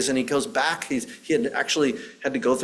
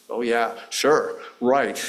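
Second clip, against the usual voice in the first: dismissive yeah-sure, not meant; skeptical; 2 semitones lower, slower than usual. Retold or imitated. Son brushing off his mother's invitation, skeptical. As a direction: brush it off without believing it. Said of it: "in this kind of skeptical way".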